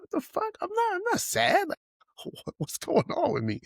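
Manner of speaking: high falsetto, bewildered and half laughing; high squeaky self-mocking disbelief. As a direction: play yourself baffled by your own tears. His own tearing-up reaction.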